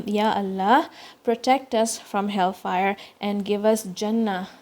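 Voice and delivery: earnest supplication, repeated; prayerful dua. Acted.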